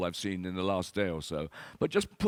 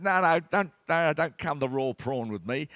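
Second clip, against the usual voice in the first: Aussie protest; 5 semitones higher, 3 dB louder than usual. Retold or imitated. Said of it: "And he said".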